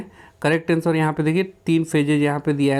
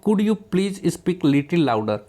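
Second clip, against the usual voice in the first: polite request; much slower than usual. Shown as a demonstration. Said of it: "politely word".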